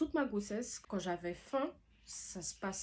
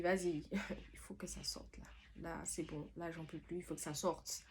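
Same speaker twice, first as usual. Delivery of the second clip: whispered thought; 5 dB quieter than usual. Retold or imitated. Exhausted inner thought, whispered.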